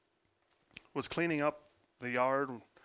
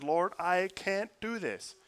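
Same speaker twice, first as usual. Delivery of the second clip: anguished plea; 5 semitones higher, 4 dB louder, slower than usual. Retold or imitated. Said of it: "I said".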